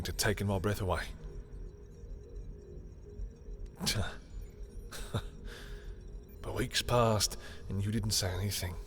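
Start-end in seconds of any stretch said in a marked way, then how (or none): 3.2-6.2 soft, breathy little laugh; rueful laugh. Acted. Confessing they took my breath away, soft rueful laugh. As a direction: laugh quietly under the breath.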